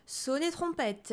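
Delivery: slow, high trumpet-call announcement; announcing fanfare. A narrator's reading. Narrator announces the pool like a fanfare. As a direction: call it out like a herald.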